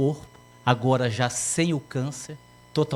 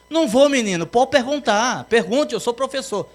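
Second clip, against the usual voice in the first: insistent teacher; 7 semitones higher, 4 dB louder than usual. Acted.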